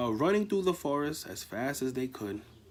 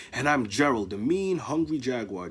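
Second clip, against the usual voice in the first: shouted; 3 dB louder than usual. Acted. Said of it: "Gerald shouted".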